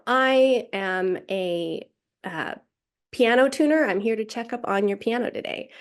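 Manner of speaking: pause, then lift on tuner; pause before tuner. Shown as a demonstration. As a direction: hold a beat before the key word. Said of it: "there's a pause and an emphasis".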